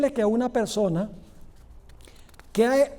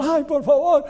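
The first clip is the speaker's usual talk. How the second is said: llorona-style plea; 4 semitones higher, 3 dB louder than usual. Acted. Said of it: "le forma la llorona".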